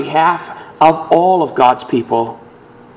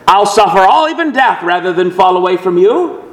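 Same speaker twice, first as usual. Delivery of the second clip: earnest vow; 3 semitones higher than usual. Acted. Peter's boast acted out.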